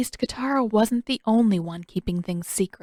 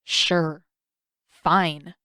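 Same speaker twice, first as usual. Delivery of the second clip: grumbling; 3 semitones lower than usual. A narrator's reading. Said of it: "Sokka scowled and grumbled".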